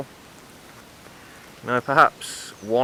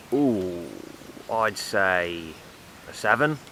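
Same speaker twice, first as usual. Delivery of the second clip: builder rating a woman; 3 dB quieter, slower than usual. Retold or imitated. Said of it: "talking like this".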